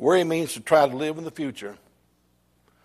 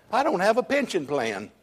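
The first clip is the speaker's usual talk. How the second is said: raised-pitch pretend child's whimper; mock weeping child; 5 semitones higher than usual. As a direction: confess it as a fretful little child, higher. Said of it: "and just weeping and said".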